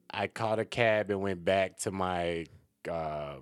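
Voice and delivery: imitating a Michigan accent. Shown as a demonstration. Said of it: "that's where you get the Michigan accent".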